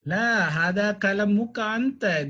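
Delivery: "La hada kalamuka anta" said with firm emphasis; emphatic statement. Shown as a demonstration. Teacher demonstrating emphasis with "anta", emphatic. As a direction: stress the point through "kalamuka anta". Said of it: "is to give a emphasis".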